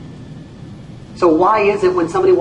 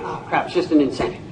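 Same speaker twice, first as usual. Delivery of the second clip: jaded; 2 semitones lower, 5 dB quieter, faster than usual. Retold or imitated. Audience member shrugging off a new contest, bored mutter. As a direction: shrug it off, unimpressed. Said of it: "We have an incentive plan".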